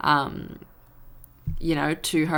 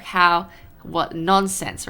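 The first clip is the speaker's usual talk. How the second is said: exasperated; 2 semitones higher, 5 dB louder, much slower than usual. Retold or imitated. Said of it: "when you're frustrated".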